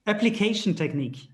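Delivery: "Application" said the English way, application with a sh sound; English pronunciation. Shown as a demonstration. Asked by co-host Nadia to say it in English, "Application" in English. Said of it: "dis-le en anglais".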